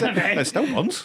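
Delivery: drawn out and high; slow. Acted. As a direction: stretch it out slowly. Joking riff on the chest.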